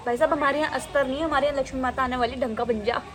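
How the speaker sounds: quick, half-joking plea to the drawing; mock pleading. Real, not acted. Scolding her crooked rangoli, a quick mock plea. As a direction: beg the rangoli to turn out right.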